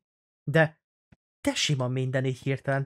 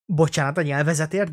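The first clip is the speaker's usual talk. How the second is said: imitating neighbour's yelling; 4 semitones higher, 4 dB louder than usual. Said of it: "apuka az így kiabált neki".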